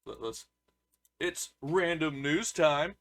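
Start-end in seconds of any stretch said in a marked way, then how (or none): 1.2-2.9 drawn-out, higher-pitched segment intro; segment announcer. Acted. Host opens random news time, drawn-out announcer delivery.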